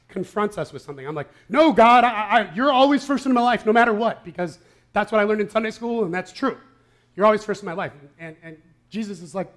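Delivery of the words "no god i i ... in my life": higher, louder defensive insistence; defensive protest. Retold or imitated. Pastor voicing his defensive answer to Jesus, loud protest. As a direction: protest too much, like a kid caught out.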